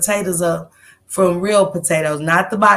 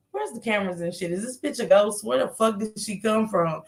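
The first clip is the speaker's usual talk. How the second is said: muttered aside; 7 dB quieter than usual. Retold or imitated. Inner thought, dropped voice.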